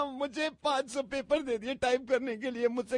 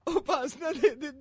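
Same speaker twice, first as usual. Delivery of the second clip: crying; slower than usual. Acted. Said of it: "रो क्यों रही हो तुम?".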